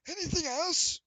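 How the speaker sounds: high, strained, gaspy barkeep; raspy gasping creature voice; struggling to breathe. Acted. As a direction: push it out high and loud, short of air. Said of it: "struggling breathing".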